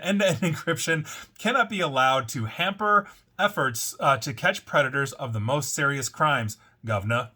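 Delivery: a light, playful mock British accent with a laugh slipping in. Podcast host quoting a UK government spokesperson, in a mock British accent. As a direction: put on a half-joking British accent to quote the official. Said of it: "should I do this in a British accent?".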